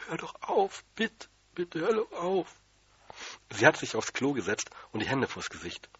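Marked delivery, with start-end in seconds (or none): 0.1-2.5 hohe, langsame, flehende Frauenstimme; hoch und gedehnt anflehen; flehender Ruf. A narrator's reading. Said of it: "Die Tante hat gerufen". (verzweifelte Tante fleht hoch)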